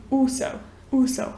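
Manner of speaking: British also leaning to a u sound; slow British also with a u; British accent. Shown as a demonstration. Teacher repeating the British also. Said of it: "puxam mais pra esse som de U".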